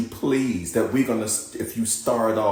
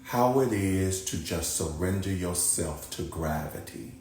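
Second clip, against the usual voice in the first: calm, softer guiding voice with long pauses; guided meditation; 6 dB quieter than usual. Acted. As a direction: ease them down into rest, unhurried.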